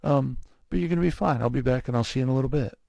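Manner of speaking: imitating an easygoing doctor soothing a patient; lightly reassuring, casual bedside patter; calming reassurance. Specialist telling a scared patient he is being monitored, calming. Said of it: "that's, like, super calming".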